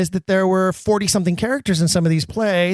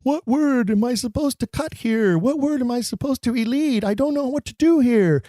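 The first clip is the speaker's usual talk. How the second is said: confused actor; 8 semitones higher than usual. Retold or imitated. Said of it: "actors come to me and go".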